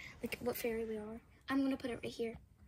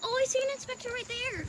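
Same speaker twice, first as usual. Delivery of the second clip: tiny tinkling fairy voice; 10 semitones higher, 4 dB quieter than usual. Pretend. Voicing small fairy running behind.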